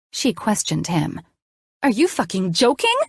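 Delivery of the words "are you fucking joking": high, sharp mock shriek. A narrator's reading. Daughter shrieking at her mother, high and sharp. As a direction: shriek it in disbelief. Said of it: "I shrieked".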